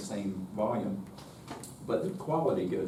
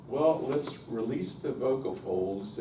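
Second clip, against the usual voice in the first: voice teacher; slower than usual. Retold or imitated. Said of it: "somebody with a doctorate would say".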